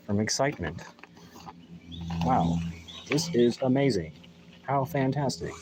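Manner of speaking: sarcastic flat robotic voice; deadpan fake excitement robot. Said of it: "I like my robotic voice".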